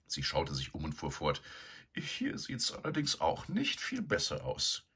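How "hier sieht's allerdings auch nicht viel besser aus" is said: bossy sow. A narrator's reading. Begonia ordering Eduard to clean the shed, bossy. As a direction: order him about, haughty.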